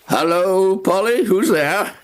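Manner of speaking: high, rising call. Acted. Captain hailing Polly from afar, calling out. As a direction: hail someone passing by. Blind captain calls to passer-by.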